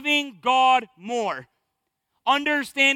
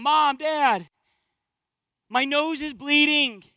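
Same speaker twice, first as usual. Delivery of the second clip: imitating a child calling out for parents; mild mock yell; 3 semitones higher, slower than usual. Son calling his parents at night, mild mock yell. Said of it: "He starts yelling".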